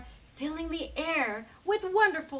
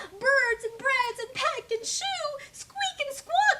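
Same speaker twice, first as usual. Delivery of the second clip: tumbling words; 12 semitones higher, 4 dB louder than usual. A narrator's reading. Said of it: "words came out in a tumble".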